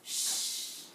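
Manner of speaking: long, loud "ch" like shushing; isolated "ch" sound. Shown as a demonstration. Teacher showing the first sound of chapou, sustained "ch". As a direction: sustain only the "ch" consonant, no vowel.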